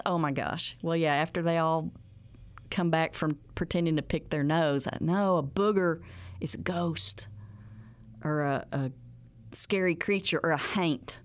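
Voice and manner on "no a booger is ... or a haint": put-on whispered, like a ghost story for kids; spooky whisper. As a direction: hush it to scare the kids a little.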